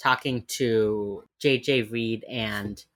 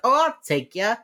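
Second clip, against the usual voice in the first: eager offer; 10 semitones higher, 6 dB louder than usual. Retold or imitated. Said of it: "Waldy comes over and is like".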